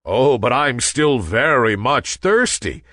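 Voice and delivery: plea climbing to a high beg; pleading. A narrator's reading. Thirsty Sun begging Nimbus for rain, pleading. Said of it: "pleaded the sun".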